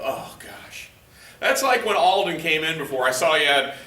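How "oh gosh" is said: low, soft sigh of dismay; gedämpfte Bestürzung. Acted. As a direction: mutter it under your breath, deflated. Dismayed reaction to bathroom scale.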